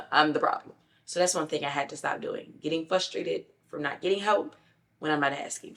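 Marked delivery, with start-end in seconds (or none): 0.1-0.7 chuckling through it; laughing admission. Real, not acted. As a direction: laugh it off as you own it.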